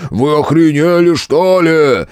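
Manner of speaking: roaring. A narrator's reading. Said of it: "проревел толстый".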